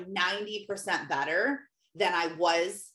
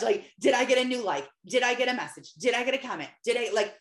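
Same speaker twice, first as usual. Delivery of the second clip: anxious checking; 3 semitones higher, faster than usual. Retold or imitated. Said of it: "like a crackhead".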